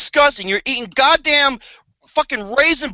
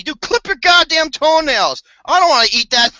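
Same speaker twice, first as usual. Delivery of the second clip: disgusted laughing shout; 4 semitones higher, 4 dB louder than usual. Real, not acted.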